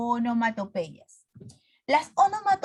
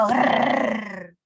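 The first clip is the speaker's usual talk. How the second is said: angry growl. Shown as a demonstration. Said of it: "eso es un sonido de enojo".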